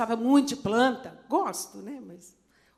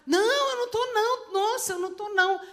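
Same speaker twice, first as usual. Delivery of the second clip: much higher, quick denial in a daughter's voice; protesting daughter; 9 semitones higher, faster than usual. Retold or imitated. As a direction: brush it off like a surprised young girl. Daughter answers mother, retold.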